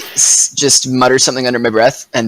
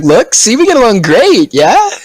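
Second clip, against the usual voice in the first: pitched-up nervous gnome, pleading; high coaxing voice; 10 semitones higher, 5 dB louder than usual. Acted. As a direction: coax them, voice climbing high.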